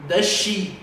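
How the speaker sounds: "Does she" run together with one shared sh sound; linked sounds. Shown as a demonstration. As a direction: blend "Does she" into "duh-she". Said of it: "o mesmo sonzinho e a gente pode falar de uma vez só". ("Does she" emendado num som só)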